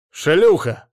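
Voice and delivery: a loud, furious slur at her; angry insult. Acted. Ex-husband curses Ada, loud and furious. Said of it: "разозлился он".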